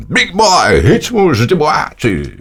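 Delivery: high, drawn-out radio show intro; Big Boy radio announcer. Retold or imitated. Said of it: "e aí escutava lá".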